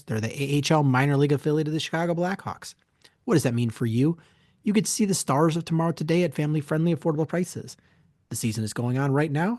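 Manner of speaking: quick, upbeat sponsor read. Acted. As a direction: sell it like a radio spot. Host reads sponsor ad.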